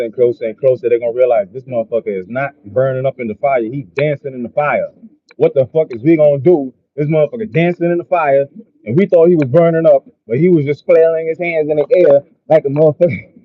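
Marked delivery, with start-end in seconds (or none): 5.4-13.3 amazed onlookers. Retold or imitated.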